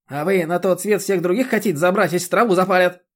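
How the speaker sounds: high, loud scolding village busybody; a bossy chairwoman lecturing; indignant chairwoman. Acted. The chairwoman berates Roman about mowing, high and loud.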